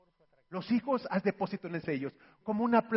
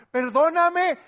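perdón enfático; 8 semitones higher, 9 dB louder, slower than usual. Acted. Madre pide perdón enfática.

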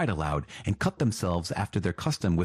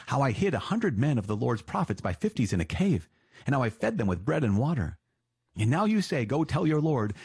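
raised, worried pleading of a frightened servant; anxious servant pleading; 5 semitones higher than usual. Acted. Servant begs the prophet not to send him, anxious pleading. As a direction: beg him like a servant who fears for his life.

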